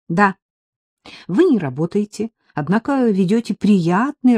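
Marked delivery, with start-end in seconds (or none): none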